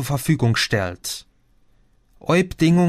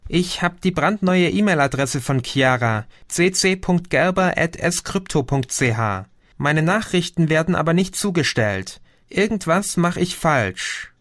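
put-on a lightly higher young woman's voice; Chrissy on the phone; 5 semitones higher than usual. Cousin Chrissy calls Gio, lightly voiced higher. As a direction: play the cousin calling, a bit lifted.

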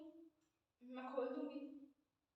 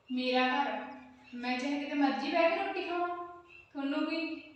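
angry retort; 7 dB louder than usual. Acted. Landlady snaps at nosy tenant.

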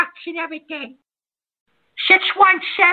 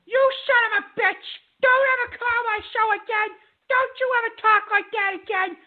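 raised, furious yelling at the caller; angry outburst; 4 semitones higher than usual. Real, not acted. Radio host furiously yelling at a racist caller. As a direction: tear into him.

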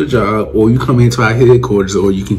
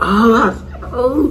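high laughing oh, oh; laughing cheer; 11 semitones higher than usual. Retold or imitated. Friends cheering him on, laughing. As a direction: friends hooting and laughing at his moves.

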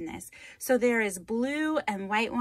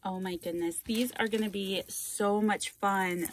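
usual speaking voice

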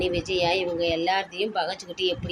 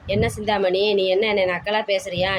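slightly raised, indignant retort in a retelling; mild retold challenge; 4 dB louder than usual. Seetha answers Sindhamani's mockery, mildly challenging. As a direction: throw the question back, lightly acted. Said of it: "சவால் விட்டுட்டு கிளம்புறா".

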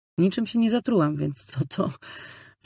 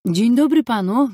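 higher, louder hello; repeating the greeting louder so the priest hears; 6 semitones higher, 7 dB louder than usual. A narrator's reading. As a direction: raise the voice on the greeting. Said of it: "powiedziałam głośniej".

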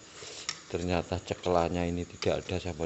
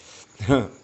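short laugh; 5 semitones higher, 10 dB louder than usual. Real, not acted. Laughs after tasting.

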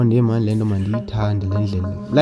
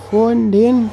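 cold shock yelp; 12 semitones higher, 4 dB louder, slower than usual. Real, not acted. Yelp entering ice bath.

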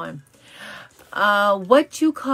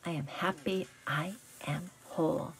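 mantra with conviction; 7 dB quieter than usual. Shown as a demonstration. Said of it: "Say it with me like you mean it".

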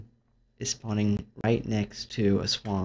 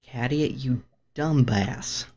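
frustrated scolding; 3 semitones higher, 6 dB louder than usual. Real, not acted. Gamer yells at the pet that got them killed. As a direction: tell it off for ruining everything. Scolding after dying in game.

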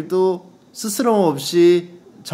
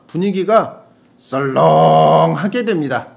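loud, drawn-out 썰렁; hammed-up slow read with a booming 썰렁; gukbap tone; 6 dB louder than usual. Shown as a demonstration. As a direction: stretch 썰렁 long and loud. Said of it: "국밥 톤으로 읽어주세요".

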